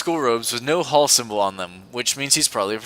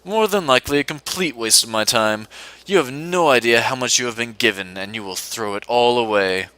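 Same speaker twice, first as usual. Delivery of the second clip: put-on British accent. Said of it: "I have to do an accent for him".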